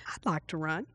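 very soft, low inner thought "I'd like to run"; inner prompting. Shown as a demonstration. Preacher voicing a quiet inner prompting, soft and low. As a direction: hush it like a thought inside you. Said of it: "they come like this".

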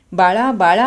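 mother calls her son through the shut door; calling out. Acted. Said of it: "असे हाक मारायला लागली".

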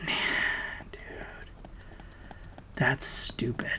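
breathy whispered aside, voice dropped away. Real, not acted. Muttering to himself mid-rant, whispered. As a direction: say it under your breath, almost voiceless.

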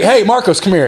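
high-pitched mock call to a friend passing by; imitating Ross calling out. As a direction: imitate a pest summoning someone over. Ross calls him over in passing.

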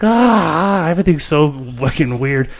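a touch of creeped-out unease, starting high; mildly acted freaked-out groan. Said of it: "all creeped out".

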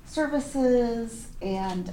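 ordinary talk

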